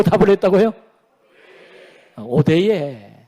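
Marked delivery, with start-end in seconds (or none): 2.2-3.1 lower, drawn dialect denial; lightly acted Korean dialect retort; regional Korean dialect. Preacher voices the people answering God, lower dialect denial. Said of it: "사투리 하나 가르치셨는데".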